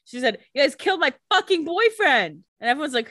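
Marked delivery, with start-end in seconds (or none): 0.5-2.4 mock furious Sage.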